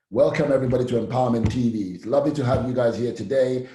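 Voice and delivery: clear, upbeat host welcome; friendly normal presenter voice. Shown as a demonstration. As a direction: greet them like a warm TV host. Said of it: "It's my normal sounding voice".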